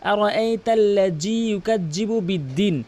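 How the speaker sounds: "আরাআইতাল্লাযী ইউকাজ্জিবু" with a hard j; mistaken recitation. Shown as a demonstration. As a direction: slowly recite it the common wrong way, j for dhal. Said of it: "অধিকাংশ লোক এভাবে তেলাওয়াত করে". (ভুল উচ্চারণে ধীর তেলাওয়াত, জাল-এর জায়গায় জিম)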